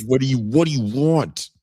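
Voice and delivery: high, insistent stammered demand; hammed-up badgering, half laughing; mock interrogation. Host echoes co-host's mock grilling, high and insistent. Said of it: "No one interrogated you before?".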